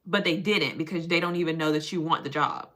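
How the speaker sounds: measured mock-therapist voice. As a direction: lightly play a patient, measured therapist. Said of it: "she be looking at me like".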